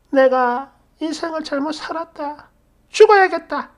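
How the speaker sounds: high, wailing self-pity; hammed-up despair; mock lament. 어머님 한탄 흉내. (어머님이 신세 한탄하듯)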